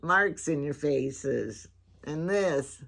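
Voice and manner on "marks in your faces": put-on imagined child voice. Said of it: "Hillary is looking at me thinking".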